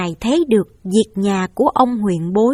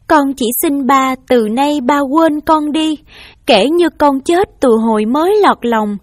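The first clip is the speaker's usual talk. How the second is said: raised, pleading voice, a touch of crying; tearful plea; 3 semitones higher than usual. Acted. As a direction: kneel and beg your father's forgiveness. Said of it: "và khóc và nói".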